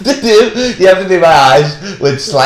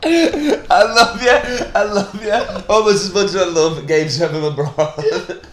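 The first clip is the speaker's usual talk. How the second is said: soft, higher mock-romantic vow; mock groom vow; 4 semitones higher, 4 dB quieter than usual. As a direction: declare love as a joke groom. Continuing the mock wedding vows.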